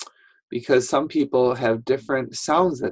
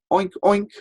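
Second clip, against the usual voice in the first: high, loud oinks; storybook pig; 10 semitones higher, 4 dB louder than usual. Shown as a demonstration. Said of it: "pigs usually say".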